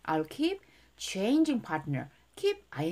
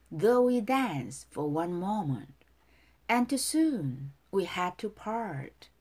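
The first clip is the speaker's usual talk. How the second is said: lyrics recited in lilting, separated phrases; feeling, dance-like. Shown as a demonstration. Teacher modelling song lyrics for students, feeling and dance-like lilt. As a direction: recite it as if dancing, pausing after each phrase. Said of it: "감정 넣어서 춤을 추듯이 발음해 볼게요".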